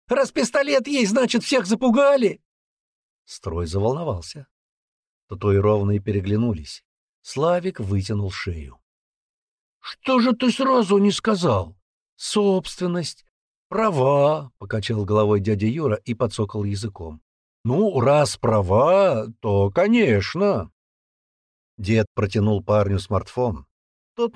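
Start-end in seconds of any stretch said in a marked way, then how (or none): 0.1-2.4 very high, loud, fast hysterical shout; teen winding himself up to hysterics; hysterical yelling. Acted. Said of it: "на грани истерики". 9.8-20.7 mock concession. Sergeant feigns giving in.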